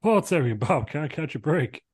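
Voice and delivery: high, slow amazed commentator; excited commentator. Acted. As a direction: marvel at it like a ringside caller.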